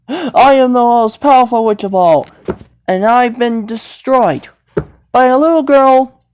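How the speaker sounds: lightly voiced melting villain; Wicked Witch. Witch scolding Dorothy as she melts, hammed-up dying lament. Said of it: "I don't know water could destroy the Wicked Witch".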